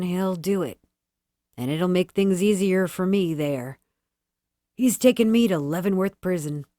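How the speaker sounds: a lightly voiced gruff convict, wheedling; glum prisoner. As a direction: beg a favour in a sly, humble tone. Glum prisoner speaks to girl.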